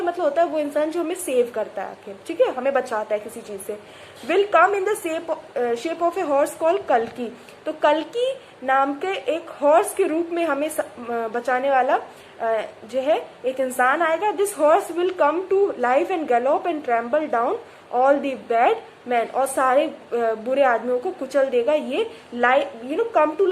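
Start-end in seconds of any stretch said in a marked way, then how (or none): 4.3-7.4 slow, deliberate reading aloud; measured textbook reading; story reading. A narrator's reading. Reads story text slowly. 14.3-19.3 slow, deliberate reading aloud; measured textbook reading; story reading. A narrator's reading. Reads story text slowly.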